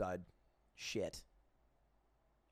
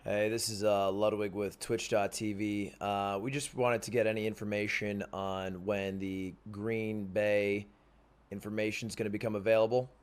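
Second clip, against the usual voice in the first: reporter voice; 3 semitones lower than usual. Pretend. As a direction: sound like a serious journalist on the phone. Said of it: "That's my reporter voice".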